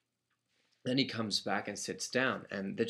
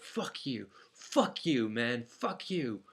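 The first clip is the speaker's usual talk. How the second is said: retold shout, only partly raised; Hoodie shouting; 2 semitones higher, much slower than usual. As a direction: mimic a man's repeated cursing shout at moderate volume. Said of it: "I start hearing Hoodie shout".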